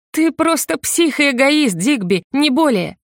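high, slow, contemptuous insult; disgusted accusation. A narrator's reading. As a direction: she calls him a lunatic, cold and bitter. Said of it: "разочарованно усмехнулась". (презрительно, медленно)

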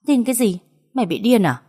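high-pitched incredulous retort; mildly acted scornful question; exasperated disbelief. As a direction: throw it back at her, annoyed. Sister snaps back in disbelief.

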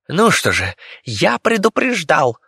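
high, slow squeaky declaration; a tiny rat announcing his attack. Acted. The rat warns before leaping onto the monster's face, high squeak.

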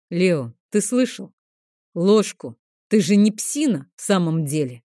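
put-on a rough uncle barking at the boy; mild coarse yell; rough shout. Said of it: "грубовато окрикнул он моего сына".

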